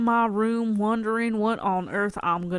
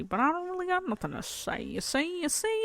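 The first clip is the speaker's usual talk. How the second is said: much higher, fast, playful put-on voice; squeaky put-on voice; 10 semitones higher, 4 dB quieter than usual. Vlogger slipping into a silly voice while rambling, high and quick. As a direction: pitch it way up like a silly character. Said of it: "when I switch into voices".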